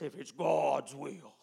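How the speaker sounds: slow, drawn-out doubtful "If it's God's will."; doubtful hedging. Retold or imitated. Preacher mocking church prayer, slow doubtful hedge. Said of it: "and they say it like this".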